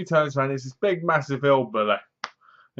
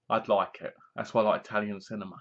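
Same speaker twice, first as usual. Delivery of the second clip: fast, soft whisper, half to himself; a rushed, conspiratorial whisper; whispered aside; 6 semitones lower, 8 dB quieter, faster than usual. Real, not acted. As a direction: sneak it in as a quick secret.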